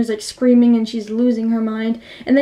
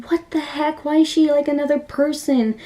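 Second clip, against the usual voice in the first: higher-pitched, baffled reaction; retold blown-away disbelief; 3 semitones higher than usual. Viewer reacting to the character switch, blown away. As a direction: pitch it up, mildly astonished. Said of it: "blown away".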